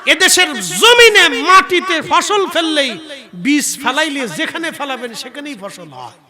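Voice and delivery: high, very loud sermon chant; full-force preaching. Real, not acted. (গলা ফাটিয়ে সুরেলা জ্বালাময়ী ওয়াজ)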